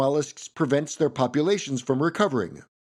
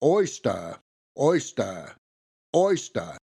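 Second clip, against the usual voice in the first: R-less Southern "oystah"; Foghorn Leghorn accent; 3 semitones lower, slower than usual. Shown as a demonstration. Narrator testing a cartoon rooster's accent on one word, R-less Southern. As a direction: end each "oyster" on an open "ah", Southern style. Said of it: "oyster in the foghorn leghorn accent".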